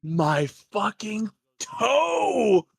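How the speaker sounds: high wailing cry, drawn out in pain; crying about his toe. Acted. GM voicing a raider belly aching about his toe, high wail. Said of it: "And he goes".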